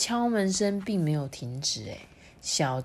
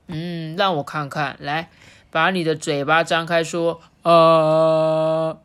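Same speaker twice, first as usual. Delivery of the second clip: examine like a gentle bear; bear doctor voice; 7 dB louder, slower than usual. A narrator's reading. (温和的熊医生)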